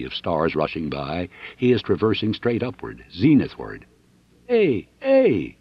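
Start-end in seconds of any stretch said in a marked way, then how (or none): 4.5-5.6 high, loud startled yell; waking scream. Acted. Dixon waking from a dream, screaming. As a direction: jolt awake shouting. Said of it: "He is awake and screaming".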